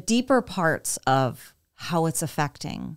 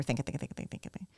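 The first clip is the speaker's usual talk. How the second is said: trailing off to a whisper; fading to whisper; 3 semitones lower, 13 dB quieter, much faster than usual. Retold or imitated. Mom at the dishes, thoughts racing, fading whisper. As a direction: let the thinking fade into breath.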